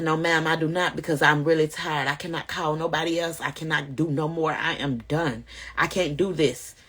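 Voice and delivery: retelling her exhaustion, quiet; worn out. Retold or imitated. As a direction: give up, voice sinking. Exhausted answer to shelter lady.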